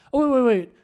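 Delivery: hammed-up sudden concern; acted alarm. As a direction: break in as if taken aback. Acts out interrupting wife in alarm.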